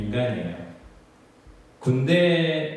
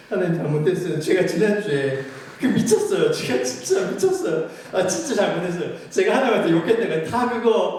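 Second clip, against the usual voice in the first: high, louder voice, near sobbing as he begs; tearful pleading prayer; 6 semitones higher, 3 dB louder than usual. Retold or imitated. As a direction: retell a weeping plea for forgiveness. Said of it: "막 혼자 울면서". (울먹이며 높은 목소리로 용서를 비는 기도)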